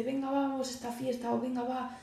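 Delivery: a hint of a friend pressing you at a party; coaxing friend. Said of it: "un amigo tuyo te viene y te dice".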